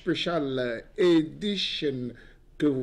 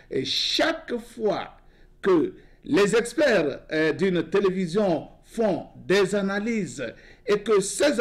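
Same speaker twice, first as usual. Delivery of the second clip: higher-pitched, emphatic editorial monologue; monologue oratoire; 3 semitones higher than usual. Real, not acted. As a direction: deliver it like an editorial, pausing between phrases. Delivers his announced nightly monologue. (monologue solennel et emphatique)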